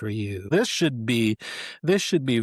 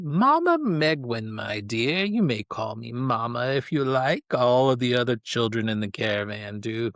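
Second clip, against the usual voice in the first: Mama Megwin, fortune teller. Acted. Fortune teller inviting the captain to call her Mama, lilting. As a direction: introduce yourself with a theatrical lilt.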